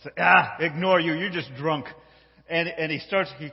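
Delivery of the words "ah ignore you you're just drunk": loud scoff, easing off; dismissive. Acted. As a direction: wave off a nuisance. Candy dismisses the warning driver.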